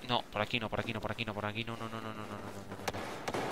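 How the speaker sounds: very soft, low repeated no; hushed, low muttering to oneself; nervous muttering. Real, not acted. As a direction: mutter it quickly under your breath, low. Nervously sneaking away from danger.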